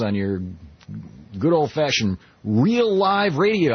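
booming radio announcer pitch; old sci-fi announcer. Acted. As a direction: sell it like a grand broadcast intro. Host reads station intro.

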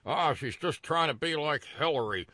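mock a scandalized white complainer; Richard Pryor white people voice. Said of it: "that's my Richard Pryor white people voice".

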